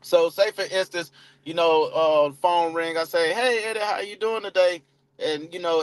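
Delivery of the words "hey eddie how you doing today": upbeat greeting. Shown as a demonstration. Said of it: "that's how I do it".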